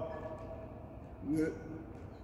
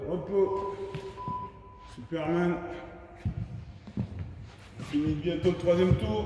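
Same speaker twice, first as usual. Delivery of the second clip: barking gym coach. Real, not acted. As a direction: bark the cues to the class. Coach calling cues mid-workout.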